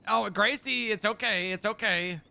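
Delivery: calm the frightened dog in a loud rush; alarmed comforting. Real, not acted. Owner hushing dog Gracie after the word vet, alarmed.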